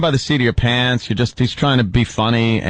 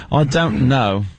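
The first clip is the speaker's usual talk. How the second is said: put-on a light, tentative British accent. Radio host attempts a British accent when asked. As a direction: try out a British accent on the spot. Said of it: "can you do a British accent?".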